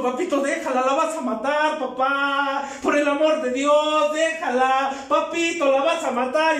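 put-on a frightened child crying out "déjala"; desperate pleading. Child begging drunk father stop.

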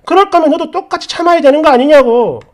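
acted angry protest; indignant wife. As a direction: argue back at the double standard. Acted wife arguing back.

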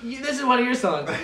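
flat monotone reading. Retold or imitated. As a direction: read it dead flat, monotone. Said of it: "in the most monotone voice".

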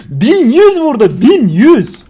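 high, loud and slow disbelief; amazed exclaiming. Real, not acted. Gamer shouts the damage number to his viewers, amazed. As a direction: stretch it out in amazement.

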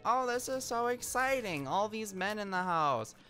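high, delighted old lady gushing, lightly voiced; mock the giddy great-grandmother, pitched high at the start; imitating an excited great-grandmother; thrilled great-grandmother. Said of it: "my great-grandmother is just like".

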